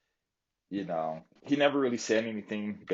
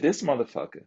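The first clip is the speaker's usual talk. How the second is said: higher, pointing at the joker; heated accusation; 4 semitones higher than usual. Retold or imitated. Vlogger retelling how he called out the joker to the group, higher and heated. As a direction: call him out, building heat. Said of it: "I said".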